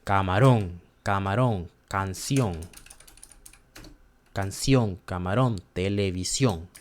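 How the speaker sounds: camarón, canción, televisión stressed on the last syllable; word drill leaning on each final accented "ón". Shown as a demonstration. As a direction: land firmly on the "ón" of camarón and canción. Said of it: "And a accent O".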